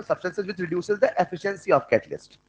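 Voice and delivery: dictating slowly, word by word; very slow dictation pace. Shown as a demonstration. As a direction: read it out slowly so they can write. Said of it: "ऐसा लिख लो".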